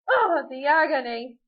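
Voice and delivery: loud, slow, high wail; melodramatic anguish. Acted. Turkey lamenting his fate, melodramatic. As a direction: wail it like a ham actor.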